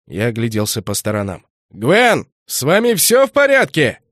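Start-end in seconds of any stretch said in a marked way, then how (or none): 1.7-4.0 high, loud anxious shout; calling out. A narrator's reading. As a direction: call out, searching for her. Shouting for the missing girl.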